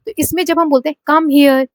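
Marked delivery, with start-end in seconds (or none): 1.1-1.7 teacher's demo of a command; stress on come. Shown as a demonstration. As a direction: push "Come", ease off on "here". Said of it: "come पे बोलते वक्त हम ज्यादा force कर रहे हैं".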